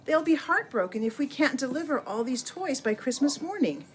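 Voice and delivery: a hint of a fretful old mare; worried horse. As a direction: plead gently on behalf of the children. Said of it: "the horse said".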